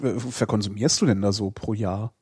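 ordinary talk, nothing marked

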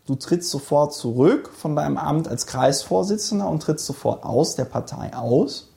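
ordinary talk, nothing marked

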